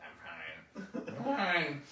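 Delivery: retold terse denial. Retold tense denial of hatred.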